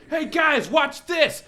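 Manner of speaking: high, loud call to his friends; mock shout. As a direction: yell it like a reckless show-off. Jeremy calls out before darting.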